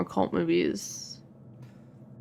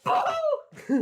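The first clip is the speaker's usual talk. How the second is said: ghost boo. Pretend.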